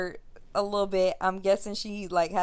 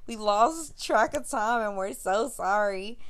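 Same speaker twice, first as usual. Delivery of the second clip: pleading apology; 3 semitones higher than usual. Retold or imitated. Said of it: "I'm like".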